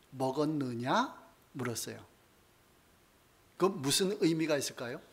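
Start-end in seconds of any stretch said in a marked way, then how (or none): 0.1-1.2 slow, gentle question as God; gently asking. Retold or imitated. God gently asks Adam if he ate, soft and slow. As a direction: ask it softly, like a patient father. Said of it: "부드럽게".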